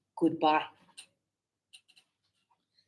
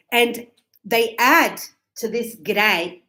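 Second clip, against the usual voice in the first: slowed for learners; slower than usual. Shown as a demonstration. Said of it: "slow demo delivery".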